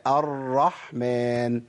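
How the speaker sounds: "الرحمن" very slow, ra doubled without violent rolling; correct gentle ra. Shown as a demonstration. Teacher corrects the over-trilled word, gentle held ra. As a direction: ease into the ra of "الرحمن" and hold it. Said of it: "مش موجودة في القرآن".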